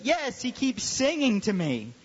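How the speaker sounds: high-pitched mock tattling; complaining student. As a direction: imitate an aggrieved kid. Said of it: "And he goes".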